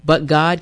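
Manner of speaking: but God, said as if in capitals; emphatic declaration of "but God"; stress on GOD. Real, not acted. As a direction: give God full emphatic weight. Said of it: "capital G, capital O, capital D".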